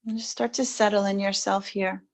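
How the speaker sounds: soft, unhurried settling-in voice; quiet, even meditation cue; guided meditation. Real, not acted. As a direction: gently guide them into stillness, long pauses between phrases.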